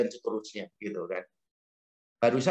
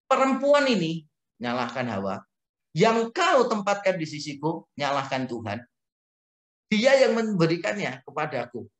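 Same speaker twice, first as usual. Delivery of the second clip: Adam making excuses. Retold or imitated. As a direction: play Adam pushing the blame away. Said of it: "Adam bilang begini".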